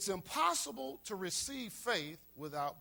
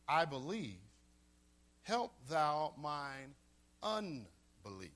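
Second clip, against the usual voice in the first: tearful plea; 6 semitones lower, slower than usual. A narrator's reading. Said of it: "cried out and said with tears".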